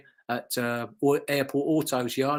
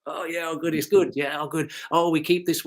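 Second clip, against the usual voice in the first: lightly imitated Dutch accent; a touch of Dutch accent; 3 semitones higher than usual. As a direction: imitate a Dutchman speaking English. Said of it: "'cause he's Dutch".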